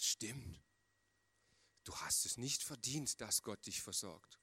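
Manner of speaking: the devil talking along, low and hushed; devil's voice. Acted. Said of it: "der Teufel, der redet ja immer so ein klein bisschen mit".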